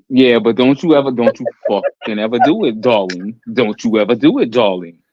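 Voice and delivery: Nuyorican accent, tough and drawn; New York Puerto Rican accent. Real, not acted. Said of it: "your New York Puerto Rican is coming out".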